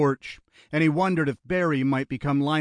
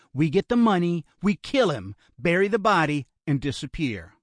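lightly voiced ruthless kidnapper, pitched up; Lionel, hardened kidnapper; 6 semitones higher than usual. Kidnapper telling his brother the murder plan, coldly insistent. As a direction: lay out the deadly plan with raised pitch.

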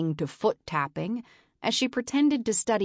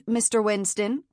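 nasal, cutting, rising at the end; harsh nasal voice; 4 semitones higher than usual. Acted. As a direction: demand it like a cold boss. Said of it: "Marion's harsh nasal voice".

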